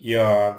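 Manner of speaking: ইয়ার said loudly with an opening "i" sound; ইয়ার with short "i" gliding into "yar"; short-i pronunciation. Shown as a demonstration. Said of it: "ইর উচ্চারণ রস্যির মতো".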